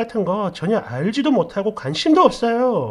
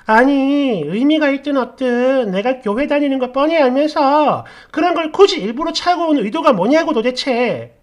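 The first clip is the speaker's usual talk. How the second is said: acted angry demand; 4 semitones higher, 5 dB louder than usual. Friend keeps angrily demanding reasons.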